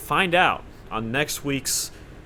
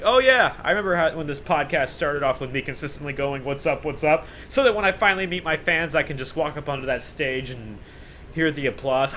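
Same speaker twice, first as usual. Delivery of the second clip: mock nostalgic; 3 semitones higher than usual. Imagined future self looking back.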